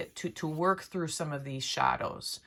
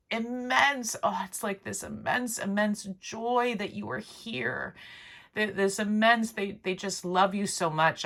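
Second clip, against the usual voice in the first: getting emotional; 5 semitones higher than usual. Real, not acted. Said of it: "Ah, I'm getting emotional".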